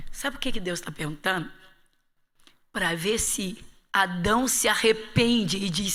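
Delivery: ordinary delivery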